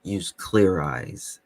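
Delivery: lightly done slow, dry droning ad voice; a hint of a deadpan eye-drop commercial, drawn out; Ben Stein. To a riled-up viewer, a touch of a monotone Ben Stein ad read. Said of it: "my Ben Stein voice".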